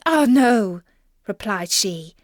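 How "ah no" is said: upset princess. A narrator's reading. Frightened princess answers.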